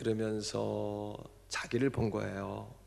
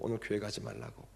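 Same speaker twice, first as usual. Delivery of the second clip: whispered quote; 4 semitones lower, 9 dB quieter, faster than usual. Retold or imitated. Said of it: "그러더래요".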